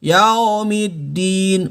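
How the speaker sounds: Yaumiddin langsam und gedehnt rezitiert; gedehntes yaumiddin. Shown as a demonstration. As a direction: zieh Yaumiddin ruhig in die Länge.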